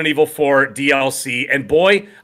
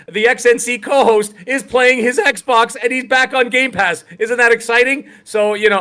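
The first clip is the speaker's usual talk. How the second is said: higher, slow robot voice; 8 semitones higher than usual. Acted. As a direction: speak like a game-show robot. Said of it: "now I'm gonna talk like a robot".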